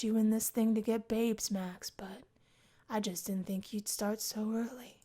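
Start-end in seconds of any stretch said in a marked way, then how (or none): 1.5-5.0 unvoiced teasing aside; whispered aside. Memphis teasing Max about bringing a girl, whispered. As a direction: lean in and whisper it.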